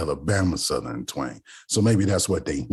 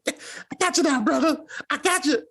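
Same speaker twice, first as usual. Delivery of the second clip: much higher, laughing character voice; mock TV character. Recalling a TV character's line, high laughing mimicry. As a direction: ham up the TV catchphrase.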